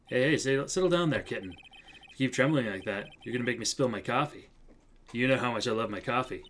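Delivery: cool, teasing mentor. Acted. Mentor telling trembling rookie to settle, coolly. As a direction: tease the rookie coolly, taking your time. Plays mentor calming Mia.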